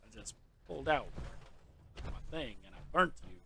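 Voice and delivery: a bad, clichéd Italian-accented taunt, lightly voiced; taunting dead enemies in a lightly done cliché Italian voice; terrible Christopher Walken. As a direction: smugly gloat over the bodies in a hammed-up bad Italian accent. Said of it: "That's a terrible Christopher Walken".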